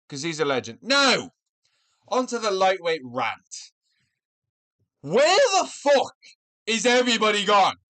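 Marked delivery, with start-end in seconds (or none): 5.0-7.8 exasperated outburst. Real, not acted. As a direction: vent the frustration, dragging it out. Angry rant about idle lightweights.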